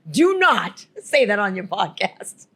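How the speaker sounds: slow, firm warning; stern warning. Retold or imitated. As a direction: warn her slowly and firmly. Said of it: "He's like".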